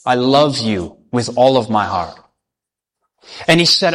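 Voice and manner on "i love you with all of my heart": low, heartfelt avowal of love; gently acted suitor, voice pitched down; tender declaration. King about to propose to Carissa, tender and earnest.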